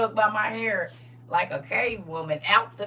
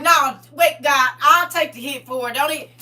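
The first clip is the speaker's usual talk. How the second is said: urgent Jesus; 4 semitones higher, 6 dB louder than usual. Acted. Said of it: "Jesus like".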